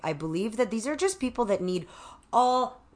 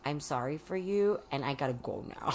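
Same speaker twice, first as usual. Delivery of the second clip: gentle reassurance; 4 semitones lower, 7 dB quieter than usual. Shown as a demonstration. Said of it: "the part where I say".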